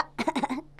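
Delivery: a short dry cough. Acted. Sick father coughing before he speaks, a short cough. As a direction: clear the throat with a cough. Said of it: "खांसते हुए कहता है".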